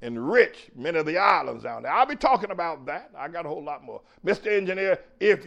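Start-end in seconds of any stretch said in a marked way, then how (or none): none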